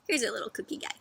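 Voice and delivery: hushed whisper over the cookie. Real, not acted. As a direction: whisper it like a little secret. Pointing out a picture.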